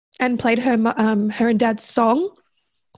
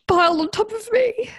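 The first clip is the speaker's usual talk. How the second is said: higher, laughing through the words; 11 semitones higher than usual. Real, not acted. Telling the host how friends piled on her, laughing. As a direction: laugh it out fondly.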